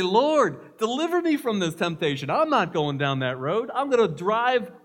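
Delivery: loud, high, fervent plea to the Lord; earnest prayer. Shown as a demonstration. Preacher shows the right prayer, loud and fervent. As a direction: plead it out with force.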